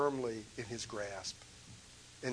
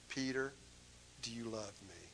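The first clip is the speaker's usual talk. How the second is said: soft, hushed asking; a quiet, loving question; tender question; 4 semitones lower, 10 dB quieter than usual. Acted. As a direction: ask gently, almost under the breath. Jesus asks Peter, retold gently.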